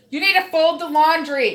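half-joking shouted command; imitating herself yelling at her daughter; mock yell. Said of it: "Unless I say".

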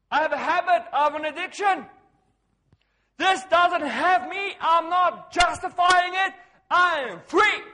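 full-voiced defiant declaration; loud declaration. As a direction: proclaim it forcefully, high and loud. Preacher acting out bold declaration.

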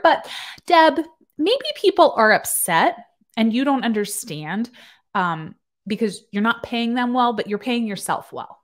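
high, loud call to the boss; calling out Deb. Real, not acted. Nurse calling out her boss Deb, pointed.

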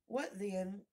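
high, hesitant tiny creature; lightly voiced little insect, halting. A narrator's reading. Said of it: "the little voice began".

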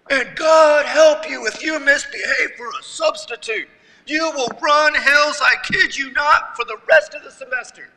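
lightly voiced stern gym coach, rattling off rules; gym coach yelling. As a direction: imitate a no-nonsense coach laying down the law. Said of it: "he just keeps going".

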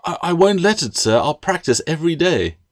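anxious. Acted. Girl anxiously promising master.

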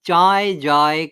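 চায়, যায় said short and firm; clipped closed syllables. Shown as a demonstration. Teacher demonstrating closed syllables, short and firm. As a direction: snap each word shut on its final sound. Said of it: "হসন্তযুক্ত ধ্বনিতে শেষ হচ্ছে".

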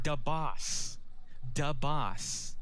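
thick Irish "Da boss"; Irish accent. Retold or imitated. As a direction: say "Da boss" like a leprechaun. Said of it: "He said".

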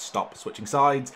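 slow, loud and high complaint; real exasperation; exasperated. Real, not acted. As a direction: drag out the frustration. Frustrated at penalty taker.

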